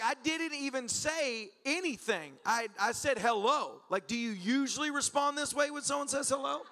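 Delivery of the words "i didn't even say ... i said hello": high, drawn-out indignant defense; mock-wounded, stretched-out words; baffled protest. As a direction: protest your innocence slowly. Protests the stranger's overreaction.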